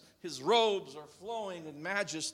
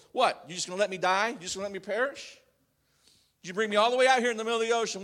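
mock complaining; much faster than usual. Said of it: "I've said it in my own way to the Lord".

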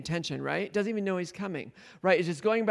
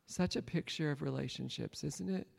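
usual speaking voice

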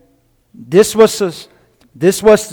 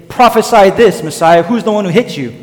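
lightly voiced taunt, pitched up; mocking; 3 semitones higher than usual. Soldiers beating Jesus demand he prophesy, mocking. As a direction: goad him, as if imitating a bully. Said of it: "They will even mock him".

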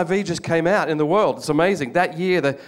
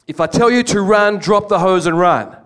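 raised commanding order; officer's order; 4 semitones higher, 5 dB louder than usual. Retold or imitated. Commanding officer warning his crew, loud order. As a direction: bark the order over the fire noise.

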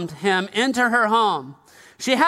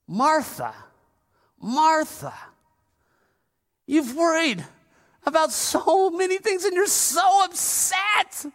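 gentle Jesus; 6 semitones higher than usual. Shown as a demonstration. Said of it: "what voice inflection did he use here".

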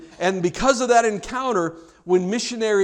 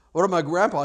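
fuller-voiced repeat of the question; pressing objection; much faster than usual. Somebody questioning the promised miracle, insistent.

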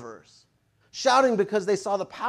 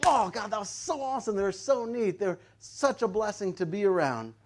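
shout of joy; 2 semitones higher, 4 dB quieter than usual. Acted. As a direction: gush softly about a new friend. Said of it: "we could have a shout of joy".

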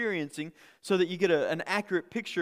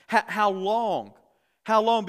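pleading cry; 4 semitones higher, 6 dB louder, slower than usual. Acted. Echoing the martyrs' cry.

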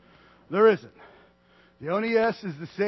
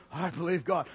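low, soft, offhand mumble; flat cliche; 3 semitones lower, 6 dB quieter than usual. Shown as a demonstration. Preacher mocking faith said as cliche, soft and flat. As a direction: toss it off like an empty phrase. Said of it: "It just sounds kinda cliche".

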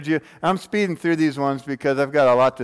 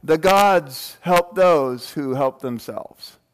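booming god voice; 4 semitones higher, slower than usual. Retold or imitated. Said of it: "Hercules shouted back".

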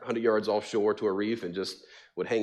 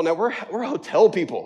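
laughing wife; 7 semitones higher, 4 dB louder than usual. Retold or imitated. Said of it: "That's what she said".

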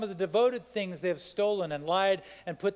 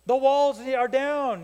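higher, slow, mocking duh; sarcastic duh; 5 semitones higher, 5 dB louder, slower than usual. People telling Nehemiah the obvious, sarcastic. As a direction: drag it out like it's obvious. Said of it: "They're like".

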